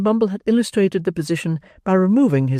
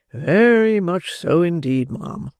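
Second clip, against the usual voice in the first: slow beadle; 4 semitones higher, slower than usual. Acted. Beadle agreeing.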